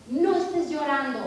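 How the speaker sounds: put-on mother scolding her child with authority; stern scolding. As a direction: lay down the law with a fussing kid. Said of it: "les dice ya como con más autoridad".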